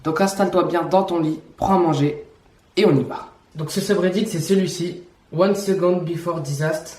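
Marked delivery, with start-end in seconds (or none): 5.4-6.9 English with a thick French accent; bad English accent. Real, not acted. Vlogger naming a subreddit to viewers, poor French-accented English. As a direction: read the English words in a clumsy French accent. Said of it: "je sais, mon accent anglais, il est éclaté au sol".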